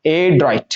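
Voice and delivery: "एड्रॉइट" with a light break after the A; teacher's careful "एड्रॉइट"; slight pause inside. Shown as a demonstration. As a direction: hold the A briefly, then finish "एड्रॉइट". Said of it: "थोड़ा सा रुकेंगे हल्का सा".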